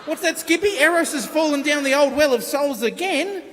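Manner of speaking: a hint of a character interpreting the kangaroo's news; Skippy parody. Presenter acts out Skippy bringing news of Eros, lightly hammed-up.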